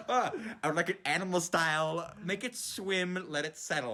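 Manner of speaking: hint of Bubble Bass, savouring each word. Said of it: "Like Bubble Bass".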